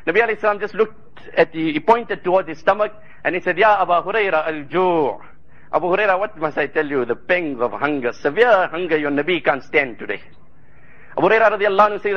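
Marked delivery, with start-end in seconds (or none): 3.6-10.2 weak, hungry voice. Retold or imitated. Prophet voicing his hunger.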